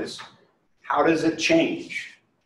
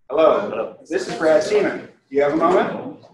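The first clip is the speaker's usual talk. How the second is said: some voice inflection; 4 semitones higher than usual. Shown as a demonstration. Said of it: "Put a little voice inflection in".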